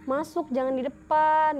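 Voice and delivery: retold calling out. Student calls truant friends inside, drawn-out retold call. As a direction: stretch it like calling through a door. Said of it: "Aku panggil nih teman-temanku".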